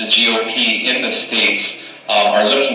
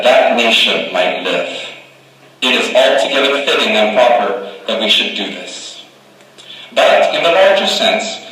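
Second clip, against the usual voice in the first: measured, solemn oration; formal speech recital. Acted. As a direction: deliver it like a statesman at a podium. Recites the Gettysburg Address.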